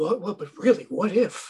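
slow, spaced-out, put-on stoned musing. Imitating a listener reacting while sitting there high. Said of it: "He's just sitting there all high".

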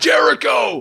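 high, loud yelled battle cry.

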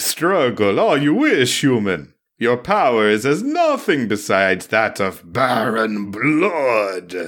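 slow vampire voice with "blood" stretched out. Asked to do a Dracula voice, reading a comic book line: Dracula voice. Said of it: "So do a Dracula voice".

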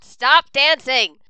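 high, loud, urgent yell. Chala yells at the others to keep going over the storm, in-character yelling. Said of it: "just like yelling at them".

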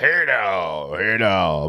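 voice dropped suddenly low, drawn out and slow. Repeating own opening greeting: imitating own deep voice. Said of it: "My voice got deep all of a sudden".

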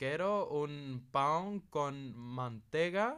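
very slow, loud, put-on foreign-accented Portuguese. Chatting about accents, the speaker imitates how those people speak portuguese: foreign accent in portuguese. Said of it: "aquelas pessoas a falar português tipo do género".

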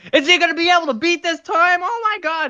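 mock frenzied race announcer, very high and loud. Retelling a race announcer's call of a marble race: imitating an announcer going crazy. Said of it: "but he was going crazy".

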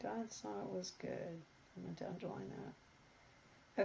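quiet mumbling under breath. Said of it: "I'm mumbling to myself".

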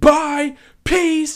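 very high, very loud, shrill scream. Recalling a woman quitting mid-shift in the restaurant, retelling a scream. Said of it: "She's like she's screaming it through the restaurant".

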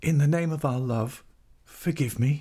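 dry-mouthed whisper. Narrator reads a woman crouched at a man's foot, dry-mouthed whisper. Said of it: "she whispered with a dry mouth".

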